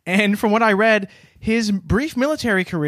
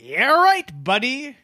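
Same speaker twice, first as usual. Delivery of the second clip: sarcastic scoff; 6 semitones higher, slower than usual. Acted. Acted waitress scoffing.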